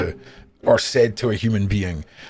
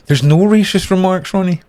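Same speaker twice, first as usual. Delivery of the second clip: high, loud "racist" punched; indignant denial; 8 semitones higher, 4 dB louder than usual. Real, not acted. Denying racist remarks to Ronnie, loud and indignant. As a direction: protest it loudly, voice up high.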